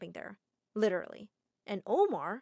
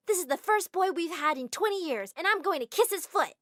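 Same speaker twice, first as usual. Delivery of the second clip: excited; 7 semitones higher, 4 dB louder than usual. Acted. Excited fan vows.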